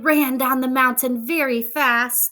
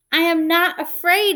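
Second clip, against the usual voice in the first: mock shout; 8 semitones higher, 3 dB louder, faster than usual. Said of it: "he shouted".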